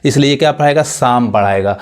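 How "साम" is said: साम said as "saam"; साम as one long-a syllable; silent letters. Shown as a demonstration. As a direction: say साम with neither p nor l. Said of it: "दोनों letter नहीं पढ़ाएगा".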